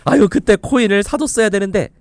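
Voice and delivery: high, loud hammed-up lament; mock regret. Expert voicing someone who missed out on coins, hammed-up regret. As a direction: wail it in put-on regret, pitched well up. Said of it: "라고 후회하실 때가 있죠".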